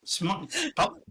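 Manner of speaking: put-on light Australian accent, rising lilt; a friendly Australian accent shout-out. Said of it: "give a shout out to the Australian audience with your Australian accent".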